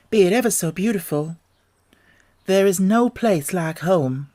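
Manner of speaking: put-on a young girl gently insisting home is best; Dorothy. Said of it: "answered the girl".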